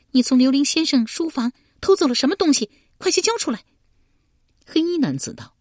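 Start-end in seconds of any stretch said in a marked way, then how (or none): 0.1-3.6 高声严厉地逼问; 厉声喝令他交出东西; 厉声喝问. A narrator's reading. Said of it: "佩娘厉声道". (佩娘厉声逼问黑衣男子)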